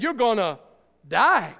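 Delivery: loud, hammed-up doom on die; mock booming threat. Preacher hamming up God's warning to Eve, mock booming. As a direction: boom it out like a cartoon warning. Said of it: "he probably didn't say it like that".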